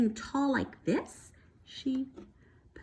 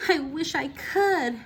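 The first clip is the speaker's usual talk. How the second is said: miserable; 5 semitones higher than usual. Acted. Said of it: "thought Chrysanthemum miserably".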